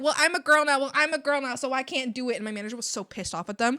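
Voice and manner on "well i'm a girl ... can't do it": lightly whiny imitation, raised pitch; mildly mocking complaint; mock whining. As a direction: mimic a coworker's whiny protest. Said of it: "they were whining so fucking much".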